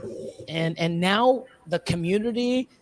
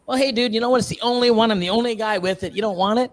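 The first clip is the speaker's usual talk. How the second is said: smug seller mockery; 4 semitones higher than usual.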